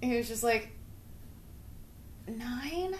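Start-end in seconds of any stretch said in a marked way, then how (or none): 2.3-2.9 stunned dad. Retold or imitated. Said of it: "That's exactly what he said".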